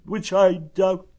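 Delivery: high, slow gloom; doubtful, drawn-out donkey moan; Eeyore. A narrator's reading. Donkey doubting it is a good morning, gloomy. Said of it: "said Eeyore gloomily".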